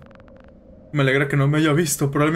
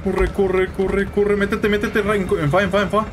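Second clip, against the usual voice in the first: higher rapid-fire repeated commands; urgent urging; 5 semitones higher, slower than usual. Real, not acted. Player urging the character to run and hide, urgent. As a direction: keep urging them into hiding.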